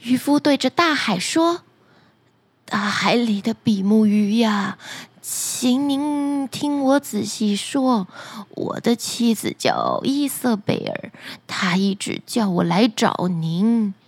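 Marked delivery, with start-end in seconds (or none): 2.6-13.9 put-on lightly lowered, slow old man; pleading fisherman. Fisherman calling the flounder by the sea, low and humble.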